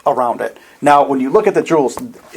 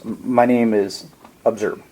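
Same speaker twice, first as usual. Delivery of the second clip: calm NPC voice; 3 semitones lower, 4 dB quieter than usual. Acted. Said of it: "his voice is very calming".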